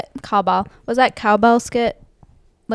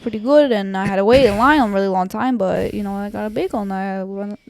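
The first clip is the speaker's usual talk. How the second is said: lightly put-on Long Island accent; mild Long Island cop talk. Shown as a demonstration. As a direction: tell it with a hint of Long Island. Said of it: "usually revert to is Long Island".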